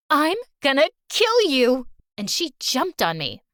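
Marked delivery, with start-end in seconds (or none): 0.1-1.9 loud, higher enraged yell; furious threat. Acted. Julie screaming at Valerie before attacking, furious. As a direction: lunge at her screaming.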